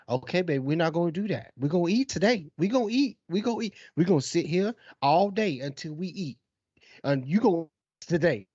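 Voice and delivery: put-on patient parent coaxing a child, lightly sing-song pitch; forced calm. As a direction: keep it calm while insisting to a toddler. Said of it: "the calmness that you have to have".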